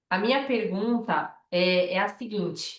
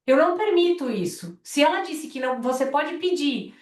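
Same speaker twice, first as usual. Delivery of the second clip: firm boundary; 3 semitones higher than usual. Retold or imitated. Retelling a firm talk to father.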